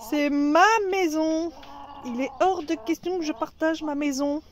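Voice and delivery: a touch of a hen defending her home; hen's indignant voice. Pretend. Voicing the angry hen Bianca, mildly indignant. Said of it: "Elle se dit".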